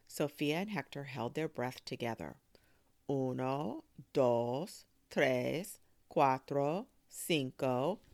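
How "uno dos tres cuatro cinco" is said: steady, spaced-out count, each number rising; counting aloud. A narrator's reading. Grandmother counting while children hold breath, measured count. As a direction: count them off firmly. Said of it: "Abuela counted".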